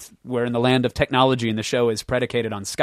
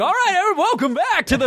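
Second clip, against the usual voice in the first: high, bright announcer greeting; booming TV host welcome; game show host voice. Retold or imitated. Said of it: "game show host voice".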